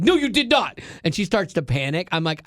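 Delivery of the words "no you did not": mock disbelief. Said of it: "She's like".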